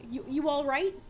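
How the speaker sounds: lightly put-on British accent. Shown as a demonstration. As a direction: ask it with a hint of British. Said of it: "like, a British accent".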